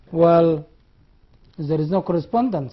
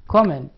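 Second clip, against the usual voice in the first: Comment with the first syllable stressed; 2 semitones lower, 3 dB louder than usual. Shown as a demonstration. Teacher showing students the noun, stress on the first syllable of Comment. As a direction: punch the opening of Comment. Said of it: "How do you pronounce it?".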